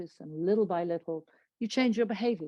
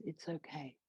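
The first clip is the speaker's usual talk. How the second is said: gentle voice; 2 semitones lower, 12 dB quieter than usual. Shown as a demonstration. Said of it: "gentle voice".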